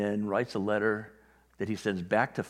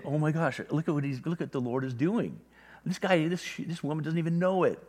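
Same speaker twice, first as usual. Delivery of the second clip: higher, eager "oh my gosh"; thrilled to share a secret; excited whisper-gossip; 5 semitones higher than usual. Retold or imitated. Angels marvel over God's shoulder at what the Lord is doing, excited.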